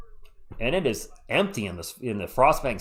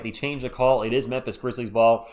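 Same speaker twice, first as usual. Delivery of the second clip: stuffy, congested voice; blocked nose; 2 semitones lower than usual. Real, not acted. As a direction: talk through a blocked nose. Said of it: "sounding a little congested tonight".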